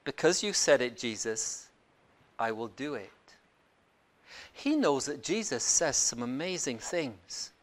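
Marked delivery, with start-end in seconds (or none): 0.1-3.1 soft, low, measured agreement; very careful. Acted. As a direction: agree cautiously, dropping low and quiet. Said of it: "very carefully, he says".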